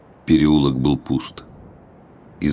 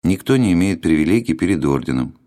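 flat officious bureaucrat; 3 semitones higher than usual. Acted. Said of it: "тем же бесцветным голосом".

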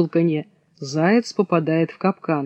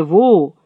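wolf howl. Acted. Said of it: "Поёт".

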